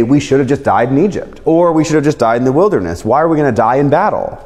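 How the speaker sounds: fast, complaining whine; whining congregation. Retold or imitated. Israelites complaining to Moses, a fast whine. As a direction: rattle off the complaints. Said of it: "and say".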